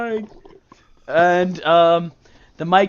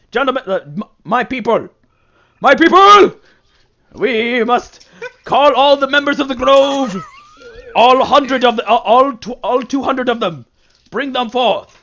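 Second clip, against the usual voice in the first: high, loud regal mushroom king; booming royal proclamation, pitched up; 5 semitones higher, 6 dB louder than usual. Acted. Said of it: "Says the Mushroom King".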